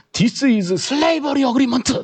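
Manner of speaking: mock Korean-accented English. Retelling a negotiation where an older vice president slammed the desk, in mock Konglish English. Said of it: "콩글리시 비슷한 영어를 쓰시면서".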